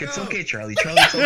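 calming a dog, laughing; soothing cop voice. Retold or imitated. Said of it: "the cop is still like".

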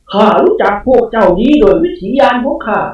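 high, loud, jolted spirit retort; startled spirit snapping. A narrator's reading. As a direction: bark back caught off guard. Spirit claiming insight. (เจ้าพ่อสะดุ้งแล้วตวาดกลับ)

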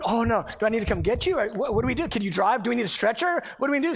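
mildly panicked rattle of questions; freaking out. Retold or imitated. Husband on the phone to his wife in labor, mock freak-out. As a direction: re-enact a flustered husband firing questions. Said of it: "I started freaking out".

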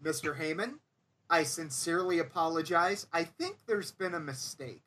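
soft, nervous sincere apology; meek apology. Retold or imitated. Crew guy apologizing to Heyman, soft and meek. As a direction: shrink away, barely audible.

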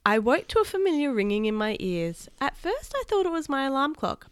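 put-on lively read-aloud voice for kids; story narration. A narrator's reading. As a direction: read the adventure to the children. Reads a children's story aloud.

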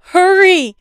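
high, loud panicked scream. A narrator's reading. Girl screaming at Dad to hurry, high and loud. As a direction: shriek it as the car rocks. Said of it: "I screamed".

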